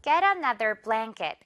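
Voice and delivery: slow, blanket as blæŋket; slow drill. Shown as a demonstration. Teacher models for repeat, slow. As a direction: Get another blanket said very slowly. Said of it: "바로 갈까요".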